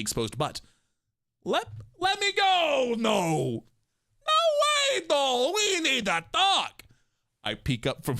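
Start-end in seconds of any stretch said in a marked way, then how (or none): 1.4-3.6 high, drawn-out protest; hammed-up cry to be let go; protesting shout. Heroine thrown over his shoulder, high protesting shout. 4.3-6.8 very high, loud mock Italian; hammed-up Italian accent. Crime boss carrying her off, loud hammed-up Italian accent. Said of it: "Italian accent".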